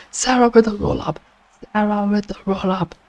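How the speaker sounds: quick hyped play-by-play shout; excited call. Real, not acted. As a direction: rattle it off as the pin happens. Calling a fast near-fall.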